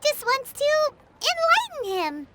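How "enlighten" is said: mock menacing. Paimon mock-threatening to set the rival straight, low and ominous. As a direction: lean in and make it sound ominous, half joking.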